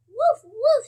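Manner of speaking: put-on child barking for the dog. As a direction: bark it out like a puppy. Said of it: "says the dog".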